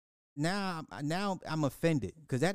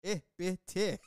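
silly put-on voice for E B T; that voice from last night; 4 semitones higher than usual. Co-host asks for the voice, he says E B T in silly voice. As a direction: spell out E B T in the goofy voice. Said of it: "say E B T in that voice from last night".

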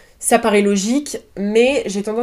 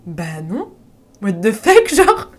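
stunned disbelief; 3 dB louder, slower than usual. Retold or imitated. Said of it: "j'étais en mode".

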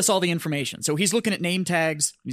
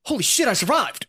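high, laughing relief; high laughing relieved holy shit; 7 semitones higher than usual. Retold or imitated. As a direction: laugh it out like you just survived. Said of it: "And I was like".

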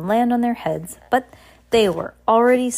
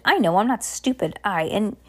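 lightly voiced captain, higher-pitched lively chatter; excitable rambling captain; 4 semitones higher than usual. Captain meeting the Baudelaire children, mildly excited rambling. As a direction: ramble on with a touch of bossy excitement.

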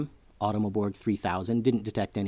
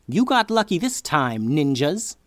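villain threat; 4 semitones higher, 4 dB louder than usual. Acted. Villain wizard threatens the ninjas.

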